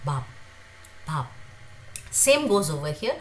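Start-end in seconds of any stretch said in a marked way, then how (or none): 0.1-1.3 Bab with a blended b sound; pronunciation demo. Shown as a demonstration. Teacher repeating Bab for students, careful. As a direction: model Bab gently. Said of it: "Somewhere between b and b".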